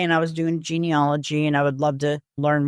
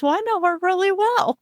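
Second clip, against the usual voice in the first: put-on knowing older man; 14 semitones higher than usual. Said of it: "and he says".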